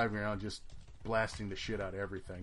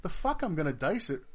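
higher, louder refusal; defiant; 7 semitones higher, 4 dB louder than usual. Retold or imitated. Refusing to dice it off, scornful and loud.

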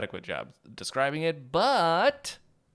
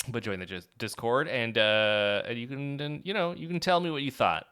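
normal talking voice

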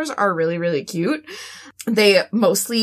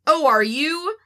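put-on fancy British accent; 5 semitones higher than usual. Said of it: "at the end you're like".

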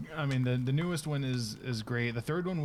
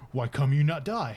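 slow, louder dumb brute voice; confused Kratos; 5 dB louder than usual. Retold or imitated. Voicing Kratos baffled by Balder, slow and louder. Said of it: "the confusion in Kratos' face".

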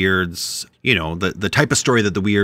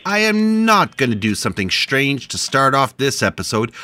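higher-pitched, hammed-up objection; mock indignant protest; 5 semitones higher than usual. Host refusing his partner before the show, mock indignant. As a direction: protest theatrically, as if caught mid-argument.

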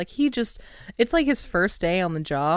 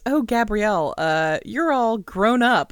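mock creepy president; 4 semitones higher, 4 dB louder than usual. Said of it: "He goes".

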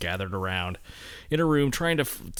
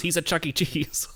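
whisper; 7 semitones higher than usual. Acted. Whispered punchline.

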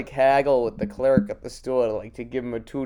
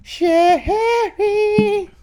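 high shouted name call; 8 dB louder than usual. Pretend. Calling out to Sherry, a sudden high shout. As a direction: yell the name across the room.

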